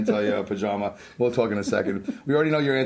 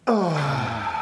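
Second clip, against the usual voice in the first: relieved exhale after held breath. Real, not acted.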